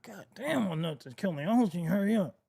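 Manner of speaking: lightly put-on ventriloquist mumble, held back; mock ventriloquist. Man acting cool while his crossed legs hurt, mock ventriloquist. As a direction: imitate a ventriloquist hiding the pain. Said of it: "Turn into a ventriloquist and shit like".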